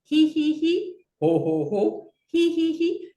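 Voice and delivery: switching hee ha ho laughs; mixed laugh sounds. Shown as a demonstration. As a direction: jump between pitches. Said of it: "make the sounds depending where your hand is".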